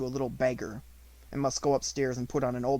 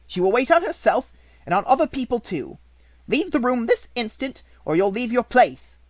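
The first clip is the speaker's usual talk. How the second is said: higher, louder angry threat; threatening; 10 semitones higher, 8 dB louder than usual. A narrator's reading. Headmistress threatening to dismiss the maid, loud. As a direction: cut her off flat.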